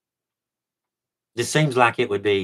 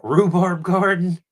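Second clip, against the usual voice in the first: laughing; 9 semitones higher, 6 dB louder, slower than usual. Real, not acted. Laughs mid-phrase, high and slow.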